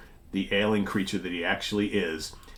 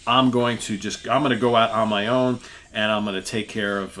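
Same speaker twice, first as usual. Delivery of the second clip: captain boasting he'll face the monster alone; bold boast; 3 semitones higher, 8 dB louder than usual. Acted. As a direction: puff up and declare it to the crew.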